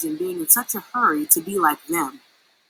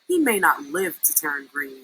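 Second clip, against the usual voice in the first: gloomy moan; 6 semitones lower than usual. A narrator's reading. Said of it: "Umbles moaned".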